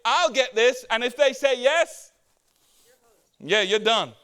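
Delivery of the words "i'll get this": feigned generosity. Retold or imitated. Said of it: "You feign like you're gonna do something nice".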